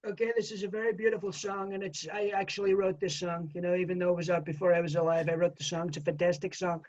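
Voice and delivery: a light brag about writing the song; quietly self-congratulating showman; Donald Trump. Retold or imitated. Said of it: "welcome Donald Trump".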